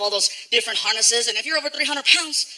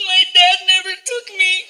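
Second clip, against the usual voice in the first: put-on higher, slow, small sad kid voice; a little kid, hurt; 8 semitones higher, 4 dB louder, slower than usual. A boy telling a man why Disneyland matters, sad and slow.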